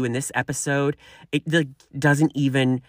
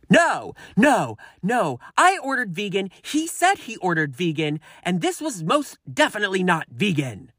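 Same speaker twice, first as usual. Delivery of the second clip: higher, mock-indignant customer voice; 5 semitones higher than usual. Customer insists to waiter, higher indignant mock voice. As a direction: play the offended diner, pitched up.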